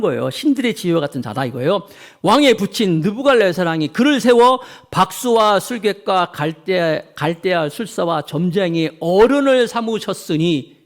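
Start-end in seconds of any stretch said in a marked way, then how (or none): 2.2-10.8 scripture reading. Acted.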